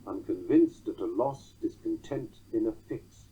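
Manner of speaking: "unconvinced at a loss, discontent in a fix" in four even beats; titty-TUM scansion of "unconvinced at a loss, discontent in a fix"; anapestic beat. Shown as a demonstration. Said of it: "or a tetrameter of twelve".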